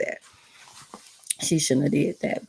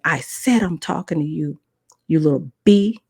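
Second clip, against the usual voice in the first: angry insult; 3 dB louder than usual. Retold or imitated. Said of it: "He gets louder and louder".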